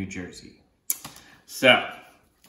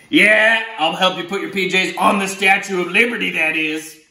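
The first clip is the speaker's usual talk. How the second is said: mild cheerful octopus; 6 semitones higher, 4 dB louder than usual. Acted. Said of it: "the octopus says".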